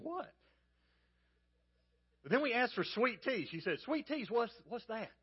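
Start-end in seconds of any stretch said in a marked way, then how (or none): 0.0-0.3 high-pitched puzzled "what?"; baffled reaction. Retold or imitated. Preacher recalling being laughed at by a waitress, baffled. 3.8-5.1 imitating a baffled waitress, pitched up; mock puzzlement. Preacher mimicking a waitress asked for sweet tea, puzzled.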